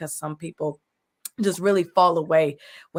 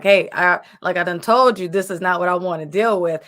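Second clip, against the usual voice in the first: louder, a mock-agitated complaint to God; half-laughing, fed-up "I done told you"; exasperated; 7 dB louder than usual.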